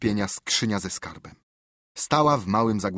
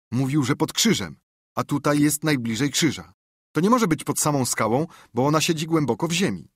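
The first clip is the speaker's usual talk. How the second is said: lightly voiced eager boy, a touch higher; a hint of a thinking-aloud boy; boy reasoning, mildly higher; boy's voice; 5 semitones higher than usual. Tomek's voice in story.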